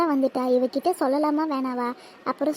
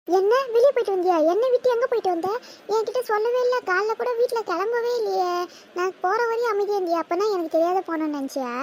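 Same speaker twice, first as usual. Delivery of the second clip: indignant surprise; 5 semitones higher than usual. Acted. Sister upset she went out alone.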